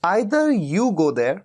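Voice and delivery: very slow, each word spelled out for students; slow dictation. Shown as a demonstration. Teacher slowly dictating the English sentence to learners. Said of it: "या तो तुम वहां जाओ".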